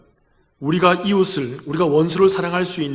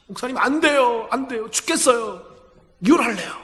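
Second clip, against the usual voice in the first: higher, desperate protest; wife insisting on divorce, higher and desperate; pleading refusal; 5 semitones higher than usual. Retold or imitated. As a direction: refuse him, near the end of her rope.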